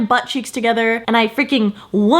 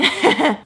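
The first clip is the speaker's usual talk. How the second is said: nervous laugh; 4 semitones higher than usual. Retold or imitated. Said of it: "my dumbass just laughs again".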